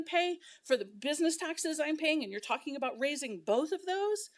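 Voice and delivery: a resident furiously scolding the council over the vote; real anger. Real, not acted. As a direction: let the frustration spill out at the council. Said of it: "but I'm pissed".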